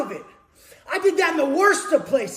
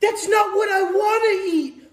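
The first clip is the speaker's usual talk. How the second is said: a touch of a whiny complainer, slightly higher; mock whiny princess; 3 semitones higher than usual. Mocking the princesses' inner whining. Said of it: "I can read their self-talk".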